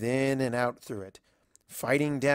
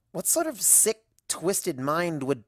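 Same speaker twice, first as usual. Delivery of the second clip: indignant; 4 semitones higher than usual. Acted. Outraged at being a story.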